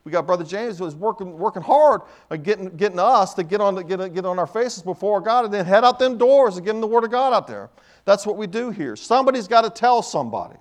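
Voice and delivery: driving pulpit exhortation; fervent preaching. Real, not acted. Preacher praising church outreach, fervent exhortation. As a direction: build it up and press the congregation.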